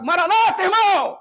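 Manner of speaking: high loud hail across the aisle; mock cheery greeting. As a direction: greet a brother with big cheer.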